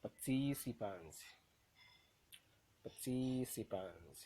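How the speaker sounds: Participant with TIC loud and long; teacher's demo of par-TIC-ipant; stressed syllable. Shown as a demonstration. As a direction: slowly stretch the second syllable of Participant. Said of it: "the one that will be pronounced louder".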